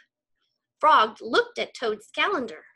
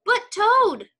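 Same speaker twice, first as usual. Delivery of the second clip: much higher, louder plea; crying out; 10 semitones higher, 6 dB louder than usual. Acted. Scene: Frog begs Toad not to go to bed, loud. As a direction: call him back before he leaves. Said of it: "cried Frog".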